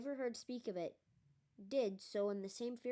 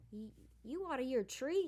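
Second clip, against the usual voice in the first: stammering, panicked Cockney yelp, a touch louder; frightened yelp; 4 semitones higher, 3 dB louder than usual. A narrator's reading. Conductor startled by a name he fears: scared yelp. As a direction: blurt it out in sudden fright. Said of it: "yelped Stan".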